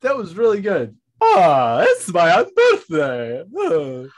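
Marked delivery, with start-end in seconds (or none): 1.2-4.1 slow, louder mock character line; drawn-out put-on voice; lightly voiced cartoon character.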